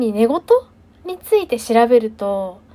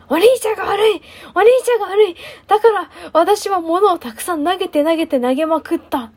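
mock sleep-talk shout; 7 semitones higher than usual. Her own sleep-talk, retold.

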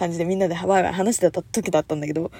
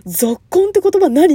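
ぞっこんって言葉何 asked loud and higher, rising on the end; mock a friend asking what ぞっこん means, louder and higher; puzzled question; 8 semitones higher, 7 dB louder than usual. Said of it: "って言われたの".

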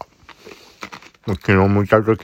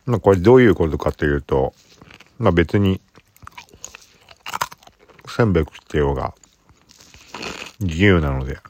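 eating while talking, mouth full. Real, not acted. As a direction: talk around a bite of rice cracker. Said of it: "せんべいを食べながら話します。".

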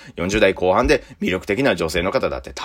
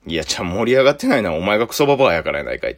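inner retort; faster than usual. Retold or imitated. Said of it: "と思いながらも".

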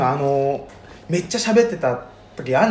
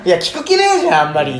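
mock protest; 4 dB louder than usual. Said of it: "って".

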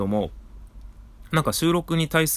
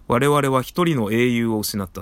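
Gihren Zabi speech; 4 dB louder than usual. Retold or imitated. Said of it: "ギレンザビでしたっけね。 あの、演説する。".

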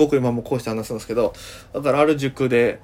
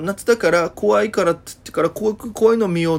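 put-on higher chatty girl voice; Okinawan girl chatter; 5 semitones higher than usual. Girl deciding on horror films, mock higher. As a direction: mimic the girl excitedly planning. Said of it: "ふーんってかましてくるんですよ".

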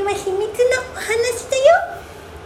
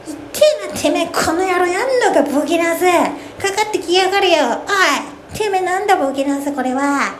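japanese delinquent tough talk. Acted. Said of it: "とか言っちゃうかも".

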